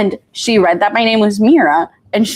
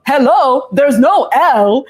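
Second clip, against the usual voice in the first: put-on quoting grandmother in Indian accent; sassy Indian accent, laughing; 5 semitones higher, slower than usual. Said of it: "With her Indian accent".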